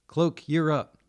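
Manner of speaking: loud, high, sudden call; sharp shout to the next person up; barked order. A narrator's reading. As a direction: bark it out like a team leader. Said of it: "Dice barked".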